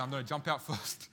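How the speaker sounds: breaks into a laugh mid-line; retold boast cracking into laughter. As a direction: chuckle through the boast.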